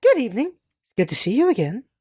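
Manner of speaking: put-on girly character voice. Voicing Samus greeting someone again, in a new Samus girl voice. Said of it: "She gets a new girl voice".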